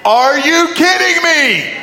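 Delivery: high, slow, laughing disbelief; a stunned laugh on the question; incredulous. Retold or imitated. Disciples to Jesus, laughing in disbelief. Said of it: "the disciples were like".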